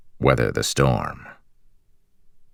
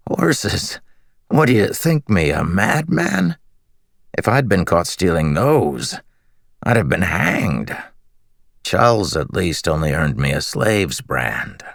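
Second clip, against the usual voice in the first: laughing; 6 semitones higher than usual. Acted. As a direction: scoff through riotous laughter. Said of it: "The man laughed riotously".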